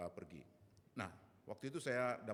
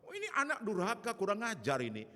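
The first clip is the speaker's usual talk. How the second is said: high, very loud mock parental outburst; angry scolding; 10 semitones higher, 8 dB louder than usual. Parent throwing out child who became pastor, scolding angrily. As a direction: berate the child at raised pitch and volume.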